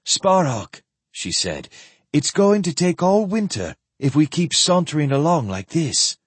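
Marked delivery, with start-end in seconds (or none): 0.0-0.8 higher, sharp call of his name; rather sharp. A narrator's reading. Impatient woman calling Sparhawk to account, sharply. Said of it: "spoke rather sharply". 2.1-6.2 higher, impatient complaint; rather sharp. A narrator's reading. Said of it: "spoke rather sharply".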